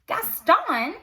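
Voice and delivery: a startled Belle answering; surprised question. Acted.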